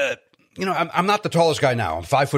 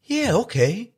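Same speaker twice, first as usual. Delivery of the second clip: higher, sheepish mock bully; mock bully giving in; 9 semitones higher, slower than usual. Bully backing down after the speech, sheepish. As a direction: shrug it off like a deflated bully. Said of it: "they always would go".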